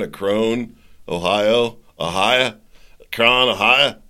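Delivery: attempted Ohio accent, trying the place name out. Shown as a demonstration. Host fumbles at how Ohio locals say Akron, attempted Ohio accent. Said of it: "That's my Ohio accent as best I can".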